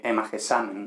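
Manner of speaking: hemagesamen with the accent on the A of -samen; stress on the A. Shown as a demonstration. Teacher showing students the Greek aorist, hemagesamen stressed on the A. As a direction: lean on the "sa" in hemagesamen. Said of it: "con el acento en la A".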